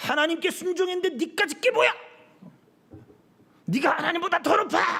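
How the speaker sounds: high, defiant, talking-back tone.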